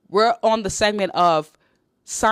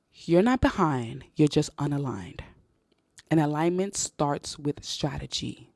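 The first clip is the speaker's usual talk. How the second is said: said slowly; 4 semitones lower, 5 dB quieter, slower than usual. Shown as a demonstration. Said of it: "And I'ma say this slowly".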